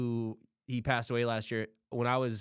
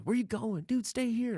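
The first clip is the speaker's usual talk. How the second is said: mock coworkers; 10 semitones higher than usual. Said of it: "everyone's like".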